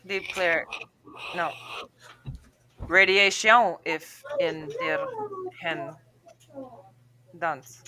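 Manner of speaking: halting French accent attempt. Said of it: "I could say it in a French accent".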